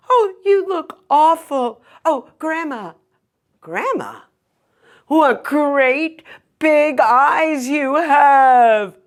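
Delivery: put-on a little girl in awe; high, slow astonished girl. Girl's famous lines.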